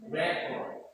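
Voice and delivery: "record" stressed on the first syllable, REC-ord. Shown as a demonstration. Teacher models noun rule for class, first-syllable stress. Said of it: "this stress is on the what? First syllable".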